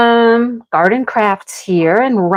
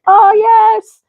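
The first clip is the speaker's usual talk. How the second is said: delighted. Retold or imitated. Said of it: "And I'm like".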